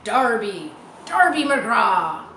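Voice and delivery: eerie voice crying out a name from the trees; ghostly call. Acted. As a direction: sing it out like a ghost calling across the woods. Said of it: "it sang out".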